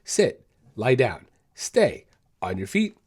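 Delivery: crisp commands to a dog, one by one; giving dog commands. Shown as a demonstration. Trainer demonstrating commands to his dog, crisp and brisk. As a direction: call out sit, lie down, stay like on stage. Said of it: "I might say".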